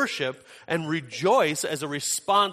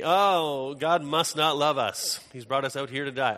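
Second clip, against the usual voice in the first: retold whining complaint. Thirsty Israelites grumble that God brought them out, mock whining. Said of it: "they start whining and complaining".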